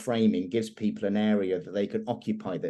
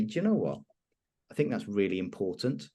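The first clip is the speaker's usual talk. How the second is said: calm validating; 3 semitones lower, 4 dB quieter than usual. Shown as a demonstration. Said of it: "I wanna say".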